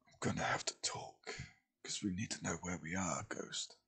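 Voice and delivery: very soft, half-whispered aside; barely audible, under the breath; quiet. A narrator's reading. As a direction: say it low so only one companion hears. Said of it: "says quietly".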